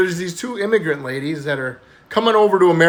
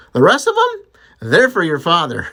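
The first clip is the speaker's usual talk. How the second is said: mocking shout; 3 semitones higher, 4 dB louder than usual. Mom's punchline shouted.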